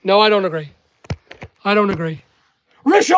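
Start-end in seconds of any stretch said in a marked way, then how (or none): 2.8-3.1 calling out. Real, not acted. Calling out to colleague Richard.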